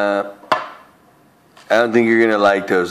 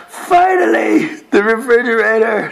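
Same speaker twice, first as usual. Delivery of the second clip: mock excitement; 9 semitones higher than usual. Mock grand reveal, high.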